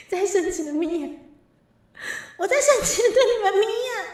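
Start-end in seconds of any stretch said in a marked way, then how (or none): 2.4-4.1 raised, a touch louder, half-laughing complaint; mock angry. Streamer telling viewers she is squinting at them angrily, mild mock anger. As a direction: pretend to be cross with chat. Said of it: "我生气了".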